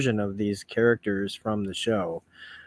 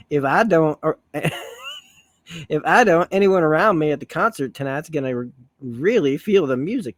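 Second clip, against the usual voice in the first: hammed-up Southern accent, breaking into laughs; slightly higher, giggly try at a Southern accent; Rogue, Southern accent; 4 semitones higher than usual. Reader retrying Rogue's concert line, amused Southern accent. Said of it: "I'm trying to sound like Rogue".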